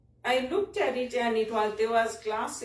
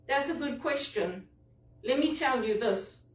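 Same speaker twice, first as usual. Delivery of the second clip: higher, lightly mimicked polite phrasing; a hint of a smooth customer-service voice; imitating North Americans; 3 semitones higher than usual. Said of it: "That's how they talk".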